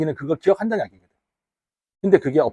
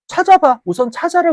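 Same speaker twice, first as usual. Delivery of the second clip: loud urging; 13 semitones higher, 7 dB louder than usual. Real, not acted. Teacher urges class to find it.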